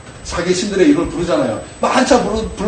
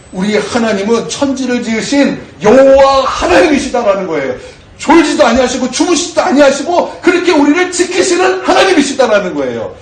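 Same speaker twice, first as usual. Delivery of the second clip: higher and louder, near a shout; full-force preaching; 6 semitones higher, 4 dB louder than usual. Real, not acted. Pastor proclaiming God's faithfulness to the congregation, shouting.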